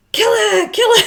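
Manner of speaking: laughing yell of kill her; retold scream. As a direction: shout it through a laugh. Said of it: "more famously screamed".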